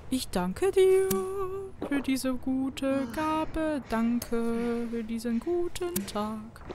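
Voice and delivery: mock prayer. Mock prayer over medkit.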